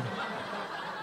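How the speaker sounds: quiet, breathy chuckle; soft laugh. Real, not acted. Pastor amused by his own story, quiet chuckle. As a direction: laugh softly under your breath.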